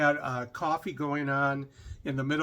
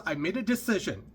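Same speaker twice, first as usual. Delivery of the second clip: mock accent, higher voice; lightly imitated accent, pitched up; Doctor Ruth; 4 semitones higher than usual. Passenger announcing a decision, mock accent. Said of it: "I'm doing a horrible accent here".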